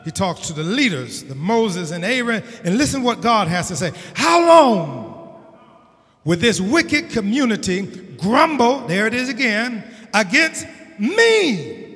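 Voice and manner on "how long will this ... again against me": voice of God. Acted. God's voice preached.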